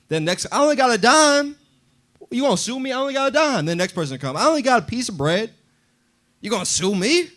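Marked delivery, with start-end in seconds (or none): 0.5-3.7 high, mocking nasal-free jeer, much higher; a thief mocking the man he robbed; taunting thief. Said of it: "Everybody would taunt him like". 4.4-7.3 high, mocking nasal-free jeer, much higher; a thief mocking the man he robbed; taunting thief. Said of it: "Everybody would taunt him like".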